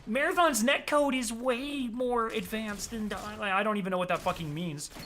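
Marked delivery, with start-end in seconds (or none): 0.1-3.4 mock Redditor. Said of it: "If I was a Redditor, I'd say".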